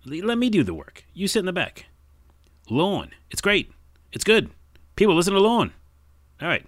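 put-on high, loud fast-talking old-time tough guy; 1920s wiseguy character. Tough guy telling the kid to scram, loud wiseguy. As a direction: shoo the kid off like a gruff 1940s mobster. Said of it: "my nineteen twenties or forties characters".

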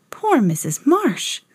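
slow, mildly sighing pity; sighed. A narrator's reading. Lisa pitying the teacher alone at night, a mild sigh. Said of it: "sighed Lisa".

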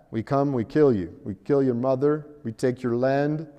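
put-on low-pitched, hammy Russian accent; mock Russian invader with a clumsy accent; terrible Russian accent. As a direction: do a bad Russian accent, landing hard on the turn to friendship. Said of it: "That's a terrible accent".

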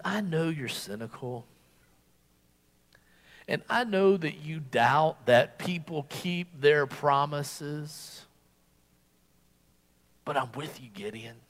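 low, soft, patient reassurance; patient divine voice, hushed and unhurried. Acted. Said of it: "the Lord is so patient".

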